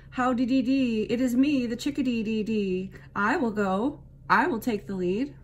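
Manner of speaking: high, loud sing-song bird voice; chirpy chickadee. A narrator's reading. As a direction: chirp it brightly like a tiny bird. Chickadee sings its name.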